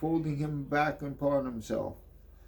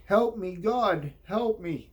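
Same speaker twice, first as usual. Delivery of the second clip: higher and louder, begging; panicked plea; 7 semitones higher, 3 dB louder than usual. Acted. A terrified man calling on God, panicked plea. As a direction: cry out for help in panic.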